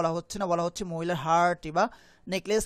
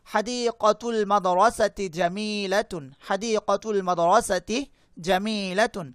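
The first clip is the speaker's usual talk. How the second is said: slow model reading; slower than usual. Shown as a demonstration. Teacher models Arabic sentence slowly.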